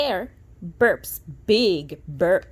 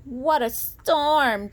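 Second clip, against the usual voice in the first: lightly voiced wren, slow; a hint of a twittering wren; 4 semitones higher, 5 dB louder, much slower than usual. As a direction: draw it out like a chirpy little bird. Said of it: "twitters wren".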